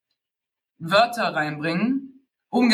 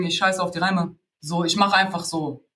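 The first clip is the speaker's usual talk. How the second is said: lower, careless don't-care rapper voice; ignorant attitude; 3 semitones lower than usual. Retold or imitated. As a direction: toss it off like you couldn't care less. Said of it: "so eine ignorante Haltung". (lässig-ignorante Haltung, tiefer gesprochen)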